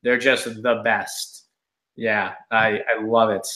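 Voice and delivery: mock enthusiasm, drawn out and sinking low; dry, low sarcastic gushing; sarcastic undertone. Real, not acted. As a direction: pretend to be thrilled, letting the sarcasm show. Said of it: "my sarcastic undertone of this entire rant".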